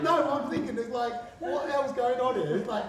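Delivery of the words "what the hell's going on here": loud, high mock outrage; hammed-up indignant question; annoyed. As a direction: retell your own fuming, high and loud. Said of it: "I'm so annoyed".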